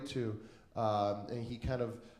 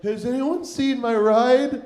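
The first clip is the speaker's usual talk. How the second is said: slow, higher, louder call across the room; calling out lost; 7 semitones higher, 7 dB louder, slower than usual. Retold or imitated. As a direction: call out to anyone who might hear. Calling around the busted party.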